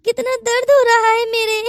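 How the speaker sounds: whimpering through mock tears; tearful complaint.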